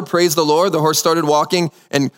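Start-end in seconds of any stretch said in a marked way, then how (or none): 0.0-0.7 slightly stronger, still only mildly raised; a little louder. Retold or imitated. Rider urges the horse on, a little louder. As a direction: push it out a bit more firmly. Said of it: "He said a little louder".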